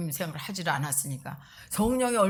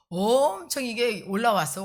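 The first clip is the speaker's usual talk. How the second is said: 엄청 punched louder, higher, falling at the end; rising anger; 4 semitones higher, 4 dB louder than usual. Retold or imitated. Pastor recalling how anger welled up, louder. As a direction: push out 엄청 올라왔어 with heat. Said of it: "anger rising".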